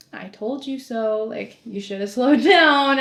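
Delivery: slow, drawn-out teasing imitation; mock a boyfriend laughing as he scolds; laughing I-told-you-so. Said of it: "he's sitting there laughing".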